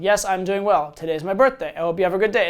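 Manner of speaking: mock-bored logical reply to a text; bored platitude. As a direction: read it like a dull polite formality. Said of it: "It's all blah, blah, boring, boring".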